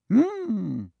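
musing hat. A narrator's reading. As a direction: ponder aloud. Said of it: "said a small voice in his ear".

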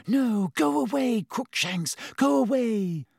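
high desperate pleading; frantic plea. Acted. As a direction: shoo the cat away in panic. Hermione pleading with cat.

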